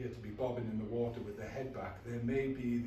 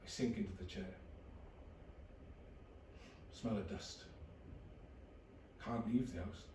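flat depressed narration. Acted. Low depressed inner narration.

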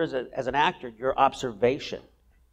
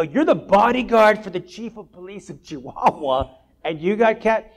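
retold disbelief; 8 semitones higher, 4 dB louder than usual.

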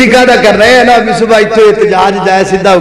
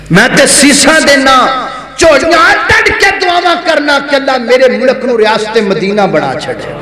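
raised, pleading pulpit delivery; impassioned preaching; 4 semitones higher than usual. Real, not acted. Preacher telling congregation how he prays for his country, raised declamatory voice. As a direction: start high and let it descend gradually.

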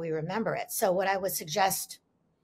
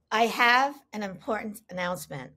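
lightly imitated public-address announcement, each word set apart; mother's loudspeaker announcement. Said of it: "mother's voice came over the loudspeaker".

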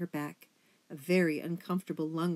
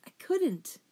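whispered; 12 semitones higher, 4 dB louder than usual. A narrator's reading. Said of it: "she whispered".

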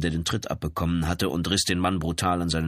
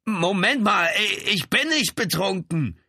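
high, loud, stammering denial; panicked protest; 14 semitones higher, 4 dB louder, slower than usual. A narrator's reading.

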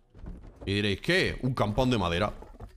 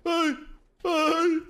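startled yelp; 13 semitones higher than usual. Real, not acted. Startled in firefight.

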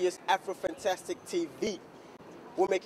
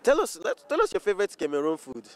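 mock African accent; 4 dB louder than usual. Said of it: "let's have this interview in, like, African accent".

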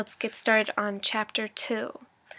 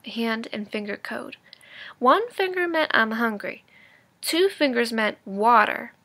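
lively read-aloud storytelling voice; engaged storybook narration for students; story narration. A narrator's reading. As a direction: read it like a teacher sharing a chapter with the class. Teacher reads chapter aloud.

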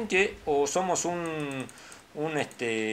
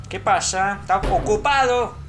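bathroom occupant voice; 3 semitones higher than usual. Pretend.

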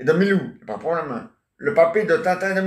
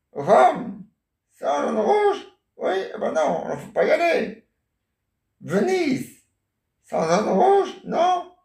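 much higher put-on wife voice; grandma playing the wife on a pretend phone call, voice pitched way up; 9 semitones higher than usual. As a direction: play the wife calling her husband on the phone, high and sweet.

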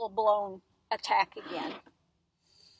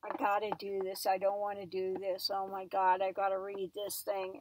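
morose Trump imitation; 4 semitones lower than usual. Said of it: "so morose doing it".

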